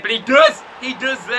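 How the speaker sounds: excited yell, voice cracking high. Real, not acted. Commentating his own FIFA goal, voice cracking. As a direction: cheer the goal so hard your voice breaks. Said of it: "That was a great voice crack".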